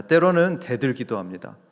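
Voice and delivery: normal talking voice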